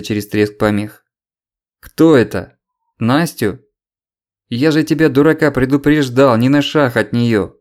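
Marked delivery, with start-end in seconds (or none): 1.8-7.6 loud hysterical shout. Acted. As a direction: scream down the phone in panic. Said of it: "истерический крик".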